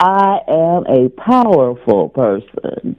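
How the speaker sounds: loud, slow, emphatic affirmation; with gusto. Shown as a demonstration. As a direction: belt it out word by word with gusto. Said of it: "One more time with gusto".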